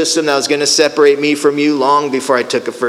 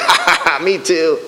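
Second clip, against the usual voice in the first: imitated chuckle before chiming in; mock ha-ha from a lightly voiced old man; old man laughing. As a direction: laugh along, then agree. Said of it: "John, the old guy in the walker".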